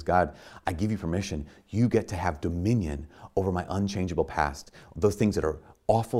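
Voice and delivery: hushed prayer voice. Acted. Quoted prayer of surrender.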